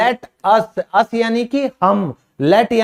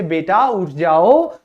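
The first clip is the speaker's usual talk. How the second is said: gentle wake-up call; 4 semitones lower, slower than usual. Retold or imitated. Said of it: "sophisticated तरीके से".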